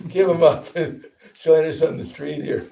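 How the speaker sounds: mock urging. Preacher to a family man on the street, mock urging. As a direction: play the tactless recruiter for laughs.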